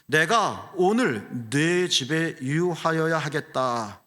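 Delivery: slow, weighty, measured voice; Jesus' words. Retold or imitated. Pastor voicing Jesus' firm declaration, slow and weighty. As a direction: state it firmly, word by word. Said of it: "말씀하셨죠".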